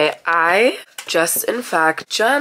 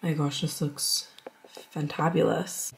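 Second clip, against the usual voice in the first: whisper; 2 semitones lower, 6 dB quieter than usual. Real, not acted. Whispered food praise.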